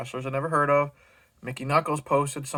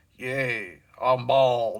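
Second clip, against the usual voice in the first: mimicked sarcastic voice with a slight slur. Imitating a man's message about going bald from therapy: imitating his sarcastic slurred voice. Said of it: "I could hear it in his fucking voice with that little bit of a slur of his".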